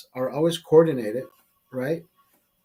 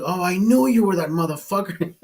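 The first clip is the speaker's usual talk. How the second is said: amused retelling; 3 semitones higher than usual. Retold or imitated. Retold bartender's realization, ending in laughter.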